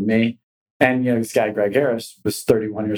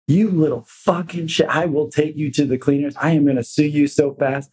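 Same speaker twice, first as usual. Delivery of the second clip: higher, hammed-up furious threat; threatening rant; 4 semitones higher than usual. Attorney threatening young agent on speakerphone, furious. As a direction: snarl a lawsuit threat at the kid.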